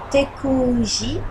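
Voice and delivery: slow careful Czech "Tekuji"; Czech word. Shown as a demonstration. Vlogger reading a Czech word off a postcard, slow and careful. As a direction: sound out "Tekuji" slowly, syllable by syllable. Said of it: "je sais pas du tout si ça se prononce comme ça".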